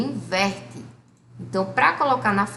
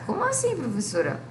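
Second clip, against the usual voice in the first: much higher, baffled pupil voice; puzzled student; 5 semitones higher than usual. Acted. Teacher voices a confused student questioning her. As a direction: squeak it out like a confused kid.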